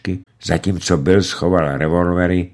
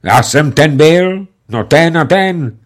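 higher, louder, slow and curt; terse Bill; 9 semitones higher, 8 dB louder, slower than usual. A narrator's reading. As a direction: state it flatly, like a gunman. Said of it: "pravil stručně". (stručně, pomalu a hlasitě)

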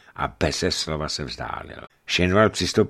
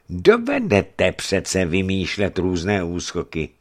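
deliberate, threatening reminder; veiled threat; 8 semitones higher, 5 dB louder than usual. A narrator's reading. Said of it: "ve slovech vyslancových ozvala hrozba".

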